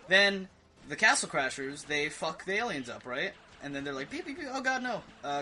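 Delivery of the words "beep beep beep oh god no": high, squeaky robotic beeps turning into panic; panicked alien. Acted. The last alien begging as the heroes attack, high panicked beeping. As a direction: beep like a doomed little alien, then panic.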